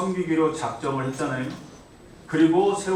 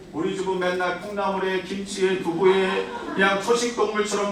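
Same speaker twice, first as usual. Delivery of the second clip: mild tearful plea; 4 semitones higher than usual. Retold or imitated. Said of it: "울면서 엄마한테 하소연을".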